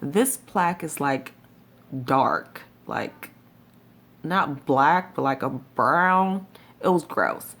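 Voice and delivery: talking through clenched teeth; wired jaw. Real, not acted. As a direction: speak without opening the jaw. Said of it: "'cause I can open my mouth now".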